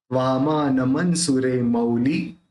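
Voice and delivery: slow line with मौली said "mau-li"; मऊ उच्चारण. Shown as a demonstration. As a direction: sound a clear au glide in मौली. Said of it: "ये मऊ होगा". (मौली में मऊ की ध्वनि, धीरे)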